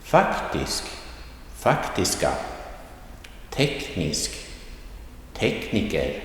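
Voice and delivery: Faktisk, Komisk, Fysisk with a tone swing on the first syllable; word-list demo, Komiker and Fysiker lifted on the opening syllable; rising tone, accent one. Shown as a demonstration. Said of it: "this is all rising tone accent one".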